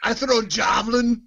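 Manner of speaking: mock Irish accent for the character; lightly voiced Irish accent. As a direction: put on a hammy Irish accent. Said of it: "I made him Irish for some reason, or Scottish".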